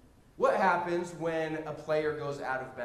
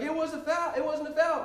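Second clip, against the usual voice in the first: mock scorekeeper arguing; 10 semitones higher than usual. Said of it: "He's like".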